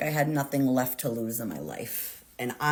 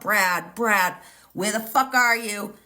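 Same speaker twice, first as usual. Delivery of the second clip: loud, high yell of a name, half-retold; crying-edged shout, higher and louder; screaming out; 5 semitones higher, 4 dB louder than usual. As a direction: call out for Brad across the store in a rage. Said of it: "screaming out".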